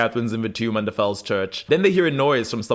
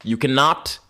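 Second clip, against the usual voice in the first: put-on Elijah's early accent; 7 semitones higher than usual. Elijah boasting to unseen foes in mock British accent. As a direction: savour the threat in a put-on English accent. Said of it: "The early, like, hybrid accent".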